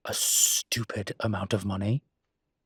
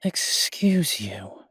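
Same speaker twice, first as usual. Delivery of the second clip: mock offended; 5 semitones higher, 6 dB louder, much slower than usual. Mock offence at listener's joke.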